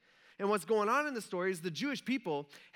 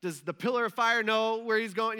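imitated grumbling. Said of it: "they start complaining about that".

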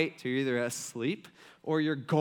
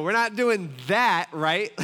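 slow, louder pleading question; husband telling wife, slowly and louder, not at home; firm plea; 2 semitones higher, 5 dB louder, slower than usual. Retold or imitated. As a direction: lean on it, half joking.

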